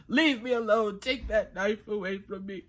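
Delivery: a branch snapping back at the farmer; talking branch. Acted. Talking branch voiced in tale.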